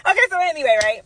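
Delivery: high, laughing-crying voice; laughing through tears. Real, not acted. Narrator laughing tearfully while telling her story. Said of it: "laughing tearfully at the memory".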